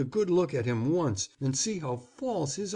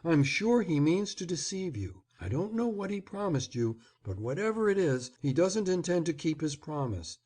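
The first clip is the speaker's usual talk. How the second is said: flattering, excited; 7 semitones higher than usual. A narrator's reading. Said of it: "a voice flattering with the excitement quivering in it".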